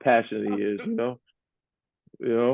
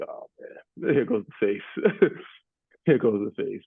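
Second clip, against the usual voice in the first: laughing quote. Retold or imitated. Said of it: "I was like".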